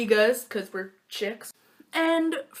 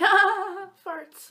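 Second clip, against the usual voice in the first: much higher goofy cackle that fades; mock silly laughter; 11 semitones higher, 7 dB louder than usual. The friends goof off in class, mock silly laughter. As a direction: act the class clowns. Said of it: "we were like".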